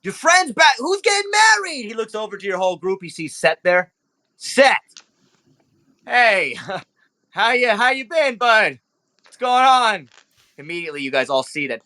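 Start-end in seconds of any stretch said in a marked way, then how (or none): 0.0-10.1 high, bright-eyed charmer; flirty club owner. Acted. Club owner flirting with Sakura, high and smooth. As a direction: turn on the charm, pitched up. GM voices Nero Pink.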